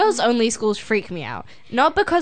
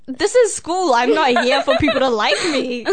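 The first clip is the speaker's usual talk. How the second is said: higher-pitched, incredulous comeback; acted-out exasperation, pitched up; exasperated retort; 6 semitones higher than usual. Retelling a comeback to a critical classmate, exasperated.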